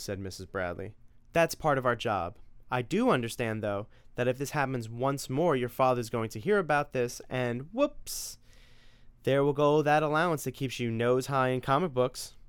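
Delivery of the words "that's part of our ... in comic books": a mother scolding her son about morning video games; nagging mother. Acted. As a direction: lay down the house rules. Narrator voices the mother.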